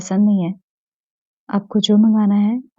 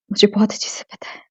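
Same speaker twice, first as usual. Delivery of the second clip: whisper. Acted. Intimate confession.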